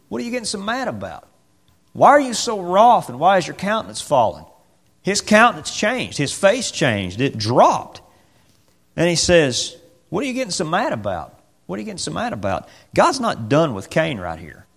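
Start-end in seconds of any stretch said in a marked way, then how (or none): 0.1-4.4 voice of God. Acted. God voiced questioning Cain. 10.1-12.7 voice of God. Acted. God voiced repeating question.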